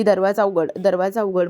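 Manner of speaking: loud call to open the door; mock yell from behind a locked door; retold shout. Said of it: "Kaveri ओरडत असते की".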